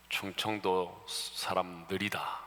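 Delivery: very slow, drawn-out mock Chungcheong speech; slow Chungcheong drawl. Preacher teasing the congregation, slow mock drawl. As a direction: stretch each word like a lazy stereotype. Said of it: "충청도에 대한 그 좋지 못한 선입견".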